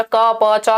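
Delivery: "का, पा, चा" in even, separate syllables; meaningless baby sounds. Shown as a demonstration. Teacher showing what cooing is, separate syllables. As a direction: sound out "का, पा, चा" one by one. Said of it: "कुछ भी आवाज निकालेगा".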